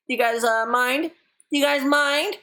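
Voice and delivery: high, rising questions; playful pleading. Real, not acted. Streamer asking viewers for a bathroom break, playful pleading. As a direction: press for permission, pitch climbing each time.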